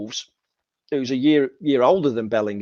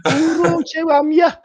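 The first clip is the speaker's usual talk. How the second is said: put-on Black Country accent; 3 dB louder than usual. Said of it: "a Black Country accent".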